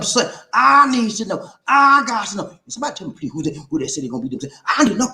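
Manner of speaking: high hammed-up pleading; mock plea. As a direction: beg the crowd for the answer.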